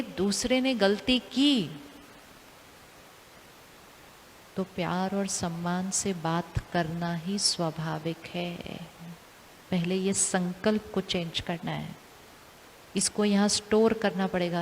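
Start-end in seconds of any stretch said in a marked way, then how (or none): 0.0-8.8 slow, soft and lower, said with calm love; gentle new belief. Shown as a demonstration. Teacher voicing the new belief to listeners, softly and slowly. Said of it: "हम कहेंगे".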